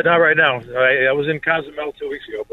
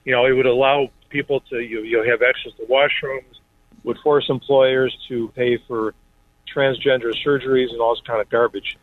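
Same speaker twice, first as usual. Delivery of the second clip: speakerphone from a car; chatting in a car. Real, not acted. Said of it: "you sound like you're in the car".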